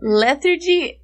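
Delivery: "lethargy" with the stress moved off the first syllable; mispronouncing lethargy. Retold or imitated. Asking a coworker, saying "lethargy" with the wrong stress. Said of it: "and I was like".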